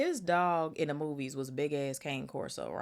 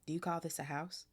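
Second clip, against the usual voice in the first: sneering; 4 dB quieter than usual. Acted. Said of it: "sneering as he looked around".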